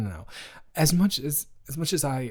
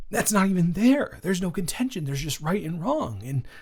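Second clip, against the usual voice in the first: higher, emphatic righteous rant; heated indignation; 3 semitones higher than usual. Real, not acted. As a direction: insist on right and wrong. Defending friend, heated.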